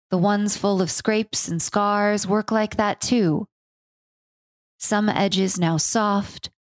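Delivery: unhurried spoken-word poem; poem reading. Acted. Reads her own poem.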